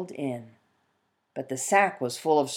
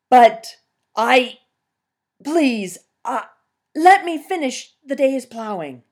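higher, louder desperate begging; pleading peasant; 8 semitones higher, 8 dB louder than usual. Acted. Peasant begging the bear to let him finish plowing. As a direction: beg for a little more time.

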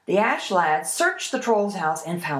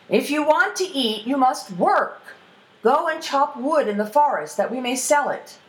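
higher-pitched, insistent fatherly order; stern father; 6 semitones higher, 4 dB louder than usual. Acted. Father orders his idle eldest son to work, stern. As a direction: lay down the law as the father.

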